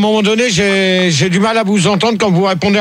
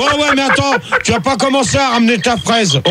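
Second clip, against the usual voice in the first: raised pitch, cutting in; exasperated scolding; 4 semitones higher than usual. Real, not acted. Host warns a caller not to butt in, exasperated.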